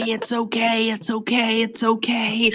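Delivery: steady repeated hushing; calm a wailer with even, level tones; soothing. Acted. Hushing the wailing character.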